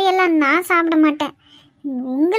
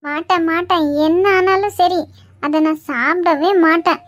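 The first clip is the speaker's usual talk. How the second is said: loud stubborn refusal; 3 dB louder than usual. Acted. Aunt refusing salad, held down.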